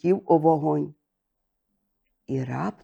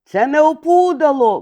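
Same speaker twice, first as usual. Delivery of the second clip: high raspy crow caws, then a cry; high cawing crow call; crow's cry; 8 semitones higher, much slower than usual. A narrator's reading. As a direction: caw like a crow, then shout. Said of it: "крикнув Ворон".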